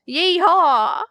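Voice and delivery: high cowboy whoop, Southern style; mock Western holler; Southern cowboy accent. Shown as a demonstration. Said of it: "like, Southern".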